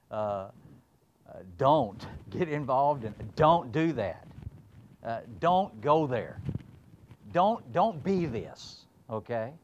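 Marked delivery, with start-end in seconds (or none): 1.6-8.8 louder, slowing hammered don'ts; mock preaching don'ts. Preacher mimicking his old preaching of prohibitions, loud. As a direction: pound each don't like an old sermon. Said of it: "needs a lot of don'ts".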